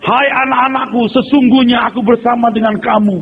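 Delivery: lightly hammed prophecy; mock prophet voice. Mocking prophecy in church.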